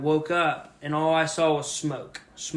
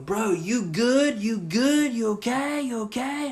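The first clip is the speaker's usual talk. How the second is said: higher, slow concerned calling; stranger checking on them; 8 semitones higher, slower than usual. Retold or imitated. Stranger rushing over asks if the driver is okay. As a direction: call out to the crash victim, worried. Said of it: "I see this dude out of the smoke going".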